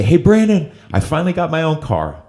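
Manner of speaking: high, loud, bursting with pride; imitating an excited sponsee. Sponsee calling out proudly to Brandon, excited. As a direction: mimic a thrilled friend sharing big news.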